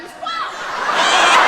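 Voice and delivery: shocked yelp. Real, not acted. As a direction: blurt it in comic despair. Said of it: "learns kid is eleven".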